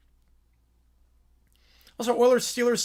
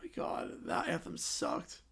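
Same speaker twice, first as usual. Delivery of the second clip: whispering; 15 dB quieter than usual. Real, not acted. Quiet aside after bad anthem.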